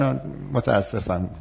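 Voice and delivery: empathetic refusal. Shown as a demonstration.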